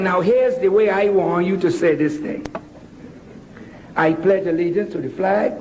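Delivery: lightly voiced West Indian mother, low and quick; West Indian accent. Mother teaching her son the Pledge, light West Indian accent. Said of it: "in her beautiful West Indian accent".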